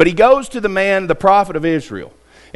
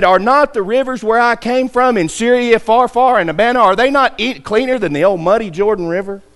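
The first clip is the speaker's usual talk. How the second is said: retold indignant protest pitched higher; angry protest; 6 semitones higher than usual. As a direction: scoff at the muddy river, voice raised in pitch. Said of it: "He was angry".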